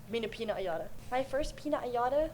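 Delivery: PINA COLADA garbled as "peena-yada"; TikTok quote. Retold or imitated. Quoting a TikTok to a friend, colada said as "yada". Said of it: "You don't know the TikTok?".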